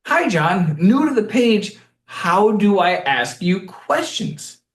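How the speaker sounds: naive newcomer. Retold or imitated. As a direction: imitate a clueless newcomer asking, drawn out at the end. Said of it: "it, they asked".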